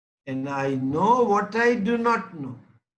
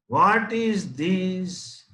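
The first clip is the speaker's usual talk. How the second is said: put-on slow, drawn-out teaching question to a toddler; mother quizzing baby; much slower than usual. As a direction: ask it slowly like a mother teaching.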